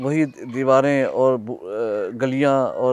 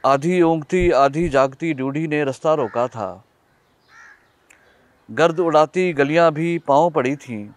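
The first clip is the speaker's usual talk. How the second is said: measured poem recital with long pauses between lines; poetry recitation. Acted. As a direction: recite your nazm phrase by phrase, letting line endings fall. Recites own poem aloud.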